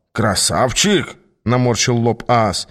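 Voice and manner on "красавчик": drawn-out doubting question; slow incredulous echo. Acted. Aas echoes the girl's pet name for him, incredulous. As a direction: stretch the word in disbelief. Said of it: "повторил Аас".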